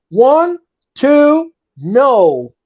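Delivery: high, rising pin count; excited count. Acted.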